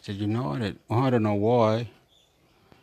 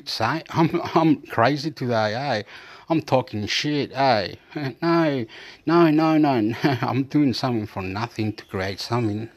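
laughing at himself; 2 semitones higher than usual. Real, not acted. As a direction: chuckle through owning up to your own rambling. Laughs at own muddled talk.

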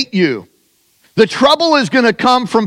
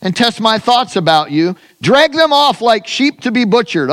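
raised, intoned scripture prayer; preaching prayer; 3 semitones higher than usual. Acted. Preacher praying Jeremiah's complaint to God, raised and intoned. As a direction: pray it out like a preacher.

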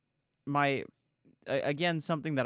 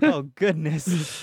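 flustered swoon; 5 semitones higher, 10 dB louder, much slower than usual. Real, not acted. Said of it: "I'm fanning myself right now".

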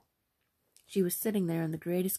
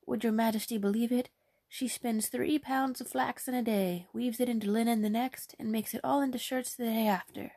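a lightly higher, eager mother's voice; mildly raised, proud peasant mother; boastful mother; 4 semitones higher than usual. Acted. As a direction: brag about her daughter to royalty.

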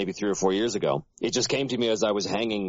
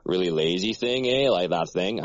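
rural Canadian accent. Shown as a demonstration. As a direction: lightly put on a lazy backwoods Canadian accent. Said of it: "the rural sort of Canadian accent".

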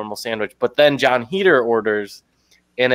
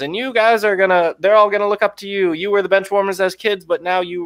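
rich guy pitch; 8 semitones higher than usual. Retold or imitated. Retelling rich guy's team speech.

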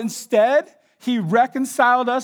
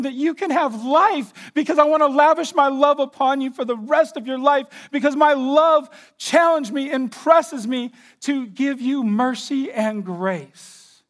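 higher, louder, building fervent plea; impassioned Jesus; 4 semitones higher, 3 dB louder than usual. Acted. Jesus pays the penalty out of love, fervent. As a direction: swell with pleading love. Jesus voiced, rising passion.

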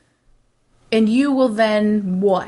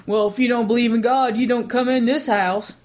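a hint of a Godfather-style accent; a touch of a mock Godfather accent; put-on accent; 3 semitones higher than usual. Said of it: "I don't know why I give it that accent".

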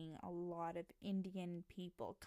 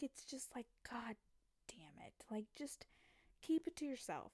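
frustrated whisper; 4 semitones higher than usual. Real, not acted. Frustrated aside about Paxton.

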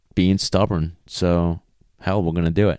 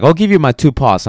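raised, lightly voiced dog haggling; voicing the dog; 7 semitones higher, 5 dB louder than usual. Dog bargaining with trainer over paws, lightly voiced. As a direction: pitch up a bit as the bargaining dog.

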